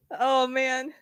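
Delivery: usual speaking voice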